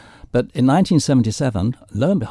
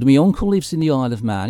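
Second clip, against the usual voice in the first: quick, higher, imitated Liverpool accent; lightly put-on Liverpool voice, louder and quicker; 4 semitones higher, 5 dB louder, faster than usual. A musician telling a radio interviewer about his uncle, Liverpool accent. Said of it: "in his Liverpool accent".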